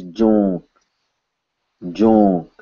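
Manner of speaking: "jonk" with a nasal vowel; "jonk" sounded nasally, as a careful demonstration; nasalized. Shown as a demonstration. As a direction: draw the vowel of "jonk" out through the nose. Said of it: "this is indeed a nasalized on".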